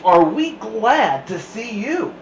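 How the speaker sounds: loud, slow, happy relief; relieved cheer. A narrator's reading. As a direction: gush with relief. Kids relieved.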